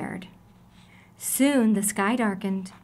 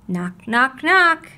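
louder, punchy knock knock; knocking sound; 2 semitones higher, 6 dB louder, much slower than usual. A narrator's reading. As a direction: rap out the knocks. Knocking at the door.

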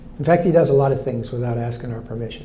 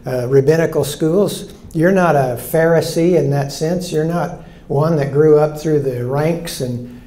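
challenging crowd; 4 semitones higher, 4 dB louder than usual. Acted. Voicing the doubting crowd.

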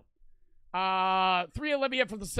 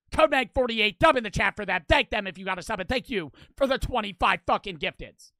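loud hype; 6 dB louder than usual. Real, not acted.

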